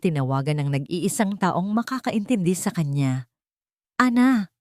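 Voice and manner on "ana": a cracking call of the friend's name; broken voice. A narrator's reading. Tearful wife calling her best friend, voice breaking. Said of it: "sabi niya sa basag na boses".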